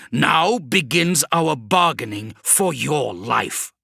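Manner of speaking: a hint of menace, slow; slow demon threat. Demon Vashtor to Kravrek, slow menacing voice. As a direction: drag out the threat.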